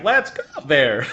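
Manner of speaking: "there" set oddly apart in "Let's go there"; badly spliced movie-line delivery; wrong inflection. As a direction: botch the inflection like a crappy sound edit. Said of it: "it's like, the inflection's wrong".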